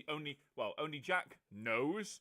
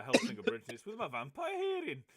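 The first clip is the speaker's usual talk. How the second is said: bad Ceres accent; 4 semitones higher, 4 dB louder than usual. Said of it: "That was a terrible version of Ceres's accent".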